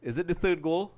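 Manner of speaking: slightly high, held-back query at normal volume; cautious question. Real, not acted. Commentator afraid to celebrate checks the goal, cautious question. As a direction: ask it carefully, afraid to celebrate.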